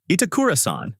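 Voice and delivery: calling out. A narrator's reading. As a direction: call her name to stop her. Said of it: "Sasaki calls out".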